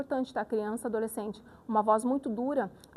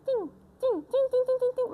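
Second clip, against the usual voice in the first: high-pitched tinny tinkle; strident little drum; 12 semitones higher, 3 dB louder, slower than usual. Shown as a demonstration. Teacher showing how a closed space sounds, high strident tim. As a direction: imitate a tiny, tight drum, very high. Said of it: "mais estridente, fica menorzinho".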